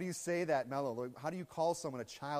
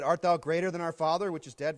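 indignant challenge; 2 semitones higher, 10 dB louder than usual. Acted. Quoting the Jews' challenge.

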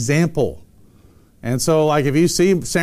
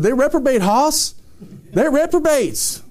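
Tony Hudson; 8 semitones higher than usual. Retold or imitated. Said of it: "what's Tony Hudson said".

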